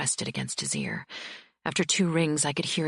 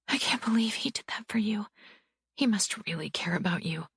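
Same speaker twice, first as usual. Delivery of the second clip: put-on bruised young wife; 6 semitones higher than usual. A narrator's reading. Bibi voiced by narrator.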